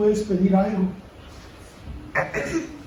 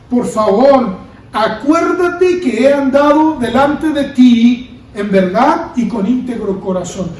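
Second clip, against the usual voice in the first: pleading prayer. Acted. Hezekiah facing the wall begs God: drawn-out pleading prayer. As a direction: beg God to remember you, slowly.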